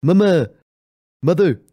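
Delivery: Family Guy kid imitation. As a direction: keep pestering mom like a cartoon child. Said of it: "Uh, Family Guy".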